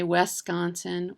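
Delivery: "Wisconsin" said like "Wes-consin"; first syllable of "Wisconsin" as "wess"; outsider mispronunciation. Retold or imitated. Imitating ads made elsewhere, "Wisconsin" mispronounced as "Wes-consin". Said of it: "Oh, they're not from here".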